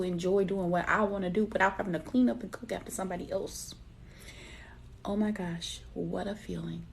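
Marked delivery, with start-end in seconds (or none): 5.0-6.9 hushed awe. Real, not acted. Awed hush at her own freedom.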